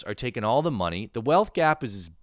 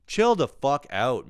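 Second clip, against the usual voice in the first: slow exasperated outburst; 4 semitones higher, 5 dB louder, slower than usual. Retold or imitated.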